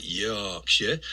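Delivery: slow Yorkshire vowels on "Yorkshire"; Yorkshire accent. Shown as a demonstration. Dialect coach demoing a Yorkshire vowel for listeners, slowly. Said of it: "a word that's got one of the predominant sounds in it".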